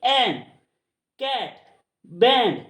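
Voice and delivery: "एन, कैट, बैंड" with an open ae vowel; open ae sound. Shown as a demonstration. Teacher giving examples of the rule, open ae in "एन, कैट, बैंड". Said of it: "ए की sound निकालता है".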